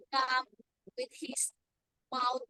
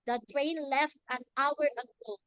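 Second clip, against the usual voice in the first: mad; 4 dB louder than usual. Shown as a demonstration. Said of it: "you are still mad".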